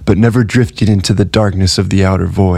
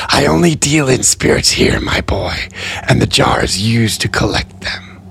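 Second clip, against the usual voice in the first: put-on higher trader, dropping to a whisper on my boy; Tally Keeper's voice; 3 semitones higher than usual. A narrator's reading. Gray explaining to Amory he deals in spirits. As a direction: gently correct the boy, hushed in the middle.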